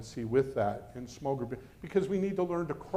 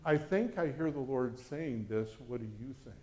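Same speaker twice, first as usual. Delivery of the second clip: humble suggestion; 3 semitones lower, 6 dB quieter than usual. Shown as a demonstration. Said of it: "I say things like".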